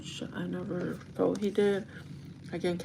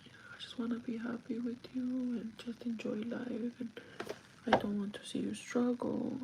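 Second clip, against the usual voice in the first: retold heartfelt plea; 5 semitones higher, 6 dB quieter than usual. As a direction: gently voice a partner's wistful confession. Voicing partner's tearful heartfelt plea.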